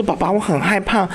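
put-on scared little boy. Small son pleading with his dad, mock frightened. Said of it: "那小朋友很小哦".

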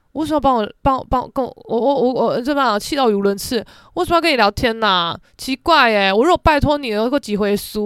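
so mad the words trip over each other; stammering angry. Real, not acted.

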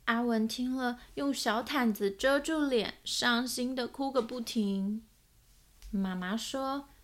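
lively picture-book reading with voiced characters; story narration. A narrator's reading. Narrator reading a children's book aloud, storytelling voice. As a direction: read it like a storyteller to small children.

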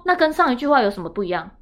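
high, loud, fast ranting; exasperated shouting. Retold or imitated. Daughter re-enacting her rant at mom, shrill loud and fast. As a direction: rattle it off in a furious high rant. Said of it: "我就说".

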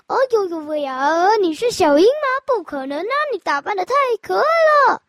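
coaxing. Acted. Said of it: "跟它撒娇说".

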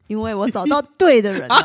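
usual speaking voice

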